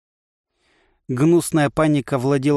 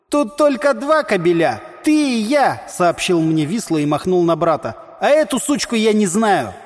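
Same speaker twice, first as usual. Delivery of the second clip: mocking brother; 6 semitones higher than usual. A narrator's reading. Vislyi mocks in quarrel.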